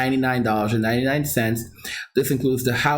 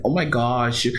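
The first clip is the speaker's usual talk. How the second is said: "Oh my gosh" with a Long Island New York twang; Long Island New York accent. Shown as a demonstration. Demoing his Long Island accent, New York twang on "Oh my gosh". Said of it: "that's when you hear my New York accent".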